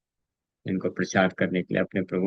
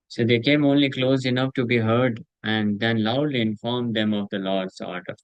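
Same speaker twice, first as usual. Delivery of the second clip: measured, very slow reading of the translation; solemn scripture translation; much slower than usual. Acted. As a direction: read each word deliberately to the listeners. Reads translation slowly.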